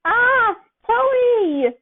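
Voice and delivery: high, loud frightened call; afraid cry. Acted. Peter waking scared and calling for Tony, high frightened cry. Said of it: "Peter's voice was so afraid".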